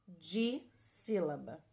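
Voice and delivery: Dissílaba slow and low, di... sílaba; slow teaching repeat of Dissílaba in two parts; term sounded out. Shown as a demonstration. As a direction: pause after the di in Dissílaba. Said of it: "ela vai se chamar dissílaba".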